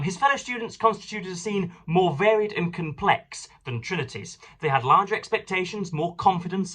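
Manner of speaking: lightly lifted reading-aloud tone. Acted. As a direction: read the passage out to the listeners. Reads a biography aloud.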